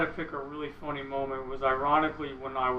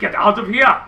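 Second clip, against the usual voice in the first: loud, raised mock dismissal; 5 semitones higher, 11 dB louder than usual. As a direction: imitate someone loudly sending you away. Mimicking hero mocking him loudly.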